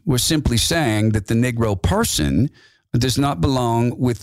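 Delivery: mild mock of a measured extremist explaining; Metzger voice. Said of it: "let me get into Metzger's voice".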